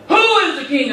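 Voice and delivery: a hammed-up challenge to the elephant; mock roar. A narrator's reading. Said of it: "he roared in his face".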